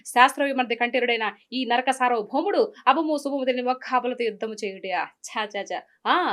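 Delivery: lightly voiced SV Ranga Rao villain, grand and mocking; a light take on a classic Telugu movie villain; film villain dialogue. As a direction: recite the old film villain's taunt with ceremony. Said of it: "ఒక్కటి అలా వదిలేండి మా కోసం".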